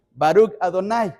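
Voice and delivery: "Baruch Adonai" pronounced in the Hebrew way; Hebrew pronunciation. Shown as a demonstration. Preacher showing how Jews say the blessing, Hebrew pronunciation. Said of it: "se pronuncia en hebreo así".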